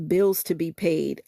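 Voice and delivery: soulful spoken-word recital of a love song; spoken-word lyric reading. Acted. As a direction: read the song words with feeling, half-performed. Reads song lyrics aloud.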